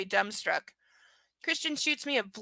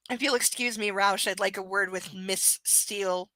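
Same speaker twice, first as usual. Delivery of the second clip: sarcastic hiss. Acted. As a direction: lightly hiss every S with mock politeness. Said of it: "hisses the S sibilantly, sarcastically".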